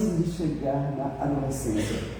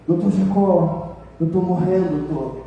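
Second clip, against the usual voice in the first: put-on weak dying old man; slower than usual. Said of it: "Bem ruim de saúde".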